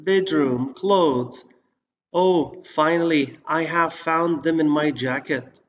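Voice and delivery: slow, careful read of a short dialogue; slow listening dialogue. Shown as a demonstration. Teacher reading an exam dialogue aloud, slow and clear. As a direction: read it clearly and slowly for learners. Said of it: "لنستمع".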